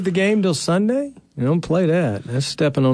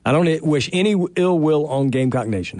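carefully controlled mock sincerity; forced straight face. Host finally wishing rival fans well, forced straight face. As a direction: push the well-wish out as earnestly as you can. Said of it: "Let me try it again".

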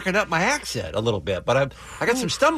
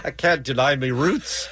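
put-on British accent; 4 semitones higher than usual. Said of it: "I don't do voices".

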